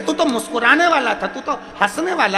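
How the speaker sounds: voicing a divine mother's astonished concern; goddess questioning her devotee. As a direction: raise the voice into a pleading, wondering reproach.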